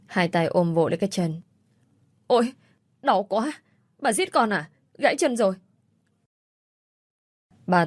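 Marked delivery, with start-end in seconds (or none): 2.3-5.6 pained cry. Acted. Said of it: "Miệng tôi vô thức hét lên".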